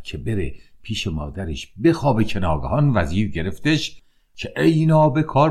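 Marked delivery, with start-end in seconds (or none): 4.6-5.5 higher and louder furious cry; furious father catching his son in the dark; angry shout. A narrator's reading. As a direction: bark the insult at the caught son. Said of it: "باز دوباره عصبانی شد".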